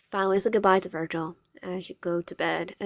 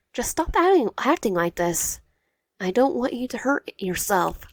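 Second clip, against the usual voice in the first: urgent plea; 5 semitones higher, 4 dB louder than usual. Acted. Wyatt repeating her plea to Cairo, high then slowing. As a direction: plead again, first word high.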